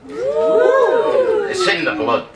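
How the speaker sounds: high, slow hammed-up theatrical declaration; grand theatrical. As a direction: declaim like a ham actor. Theatrical drama-school boast.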